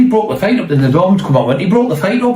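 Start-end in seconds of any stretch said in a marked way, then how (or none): 0.0-0.7 high retold voice. Retold someone defending him. 1.6-2.4 high retold voice. Retold doorman defending him.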